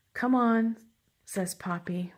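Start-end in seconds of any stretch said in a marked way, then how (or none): 0.1-0.8 louder, higher storybook call. A narrator's reading. Child hurrying the family to the show, calling out. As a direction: call to hurry them along.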